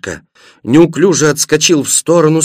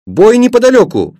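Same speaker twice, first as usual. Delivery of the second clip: put-on high, louder boyish exclamation; excited cry; 10 semitones higher, 4 dB louder than usual. A narrator's reading. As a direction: call out the sudden news in a high voice. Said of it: "вскрикнул Пашка". (взволнованный вскрик)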